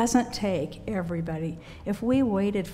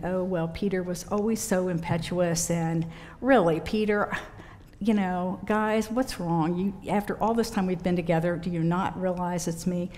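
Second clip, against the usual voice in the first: exasperated scolding. Pretend. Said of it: "that wasn't Jesus's tone of voice".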